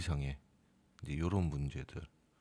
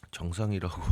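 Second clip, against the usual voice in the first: louder, laughing mock insistence; mock AI insisting; 6 dB louder than usual. AI stubbornly insisting it's normal, mock laugh. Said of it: "뻔히 이미지를 보고서도".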